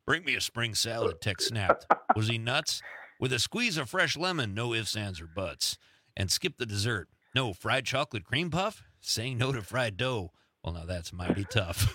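lightly voiced cowboy narrator, mostly low; a hint of deep Western storyteller; Sam Elliott. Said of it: "I'll do my best Sam Elliott".

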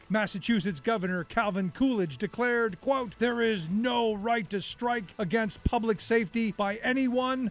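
measured documentary read; scripted history narration. Acted. Narrator telling listeners about the Boston police strike, scripted history narration. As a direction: read it as a radio history feature.

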